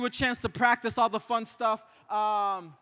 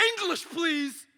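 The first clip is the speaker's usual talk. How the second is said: higher mock yell of a rude stranger; retold yell; 5 semitones higher, 5 dB quieter, much slower than usual. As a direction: snap it like the man on the train. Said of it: "the man on the train that yelled".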